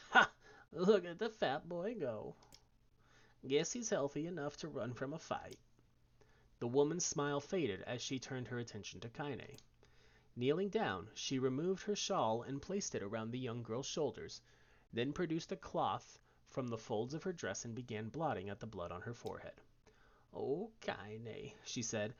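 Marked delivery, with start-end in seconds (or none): 0.1-5.6 mocking bark of a laugh. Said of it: "barked out a single laugh". 20.3-21.5 hushed, tender whisper. Acted. Grandmother soothing hurt Kaine, whispered.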